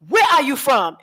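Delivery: high, direct question; demo of their asking. Shown as a demonstration. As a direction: repeat it just like they say it. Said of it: "You hear how I was just saying it?".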